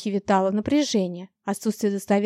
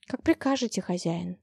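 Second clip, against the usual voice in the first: quiet submission; 3 semitones lower, 6 dB quieter than usual. Acted. Cold submissive reply to master.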